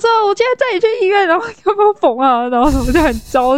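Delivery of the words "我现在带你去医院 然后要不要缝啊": anxious rush. Retold or imitated. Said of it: "就焦虑".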